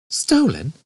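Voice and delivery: incredulous gasped question; shocked. Acted. Ford is shocked.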